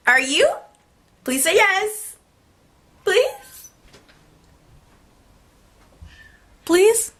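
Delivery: high, rising begging please; pleading. Retold or imitated. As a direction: beg him to say yes. Begging him to say yes.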